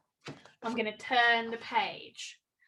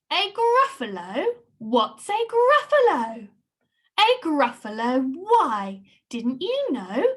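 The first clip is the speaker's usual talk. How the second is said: story characters voiced; 5 dB louder than usual. Animal and mouse dialogue acted.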